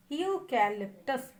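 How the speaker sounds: यूकैलिप्टस slowly split as ee-yoo, ka, lip, tus; drawn-out classroom demonstration of यूकैलिप्टस; syllable-by-syllable. Shown as a demonstration. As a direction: break यूकैलिप्टस into its stressed chunks. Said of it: "हमारा जो stress है".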